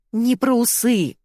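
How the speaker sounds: Зайка snaps back at Ирка's mix-up, slowly and crossly; annoyed correction. A narrator's reading. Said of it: "обозлилась Зайка".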